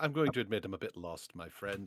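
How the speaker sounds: quiet, hushed, spoken under the breath. Leaning toward the warlock in character, admitting confusion: speaking quietly. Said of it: "I'm saying this quietly".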